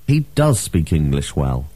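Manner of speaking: "does" stressed in admiration; exclamatory emphatic DOES. Shown as a demonstration. Teacher gives an example of exclamation, "does" stressed. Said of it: "Another use of the emphatic do".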